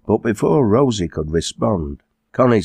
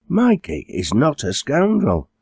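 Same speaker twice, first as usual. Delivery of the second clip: higher, indignant comeback; sharp retort; 9 semitones higher than usual. A narrator's reading. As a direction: answer back sharply. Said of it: "Connie responded sharply".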